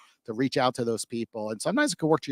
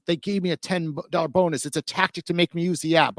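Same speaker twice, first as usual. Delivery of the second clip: mock complaining user; 5 semitones higher than usual. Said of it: "they're like".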